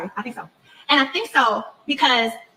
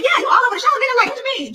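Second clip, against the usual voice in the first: retold incredulous call; 11 semitones higher, faster than usual. Portia telling Dennis he's all over the show, incredulous. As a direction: toss it back at him like it's obvious.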